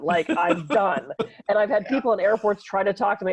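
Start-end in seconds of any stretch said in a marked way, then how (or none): 0.0-1.1 slow, final. Real, not acted. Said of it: "and then I'm done".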